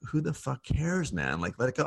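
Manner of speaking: telling a friend to let it go, half laughing; blunt but kind. Retold or imitated. Host to his doctor friend, blunt but kind. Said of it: "I say it in a kind way".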